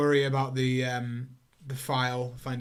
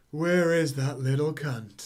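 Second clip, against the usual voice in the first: slow, drawn-out menace of a madman; mock-sinister slow growl of a deranged man; menacing psycho; 3 semitones higher, 4 dB louder, slower than usual. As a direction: linger on every word like a lurking psycho. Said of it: "and just says".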